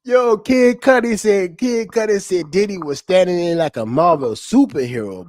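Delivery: tag. Real, not acted. Amused, repeats the absurd testimony.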